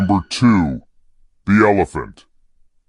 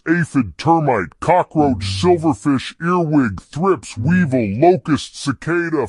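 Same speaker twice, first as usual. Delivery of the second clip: higher, quick listing; rapid-fire list; 6 semitones higher than usual. Acted. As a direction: rattle off the names.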